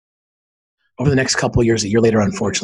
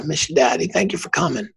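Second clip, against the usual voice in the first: a hint of a small child's voice, higher; lightly voiced little boy; 6 semitones higher than usual. Five-year-old son thanking his dad, lightly voiced child.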